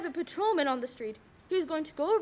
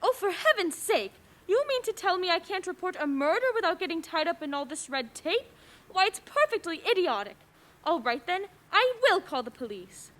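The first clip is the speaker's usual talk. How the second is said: exasperated outrage; 3 semitones higher than usual. Acted. Indignant caller blocked by red tape.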